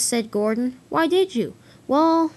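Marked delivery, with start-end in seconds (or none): 0.9-1.5 high, loud challenging question; indignant demand. Acted. Duck confronts Gordon over the rumor. 1.9-2.3 high, loud drawn-in excuse; defensive protest. Acted. Gordon defends himself when challenged.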